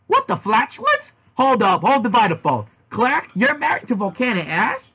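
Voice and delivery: a hammed-up shocked yell; mock scream. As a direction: shout it in disbelief. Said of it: "I screamed".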